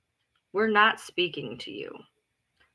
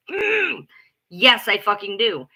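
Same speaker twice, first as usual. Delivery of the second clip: defiant retort; 4 dB louder, slower than usual. Retold or imitated. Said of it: "I'm like".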